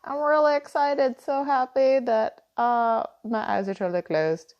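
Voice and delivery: a hint of a giddy emoji character; excited bug voice. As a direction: gush like a delighted cartoon bug, a little squeaky at first. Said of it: "And he's like".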